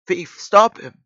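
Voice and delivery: high, loud alarmed shout; urgent shout. Acted. Policeman chasing a thief, loud high shout. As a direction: shout it down the corridor.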